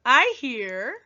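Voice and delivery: reading sound words with playful gusto; expressive poem reading. Acted. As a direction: bring each sound word to life. Teacher reads poem with sound effects.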